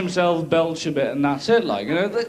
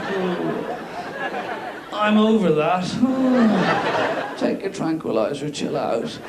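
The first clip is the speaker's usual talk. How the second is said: blasé cat voice; much slower than usual. Retold or imitated.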